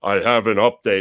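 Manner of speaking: lightly voiced booming heavenly announcer; a hint of a voice from the sky; mock divine announcement; magical voice. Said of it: "the magical voice comes down".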